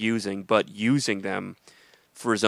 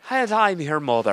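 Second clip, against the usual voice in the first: movie-line voice; 6 semitones higher, 4 dB louder than usual. Pretend. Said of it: "what the line was".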